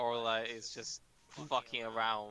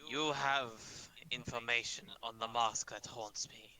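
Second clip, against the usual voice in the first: menacing demand. Acted. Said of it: "looks this guy dead in the eyes and says".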